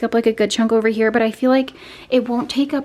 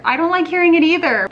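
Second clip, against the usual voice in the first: playful high voice; 7 semitones higher, 5 dB louder, faster than usual. Acted. Joking follow-up to whispered apology.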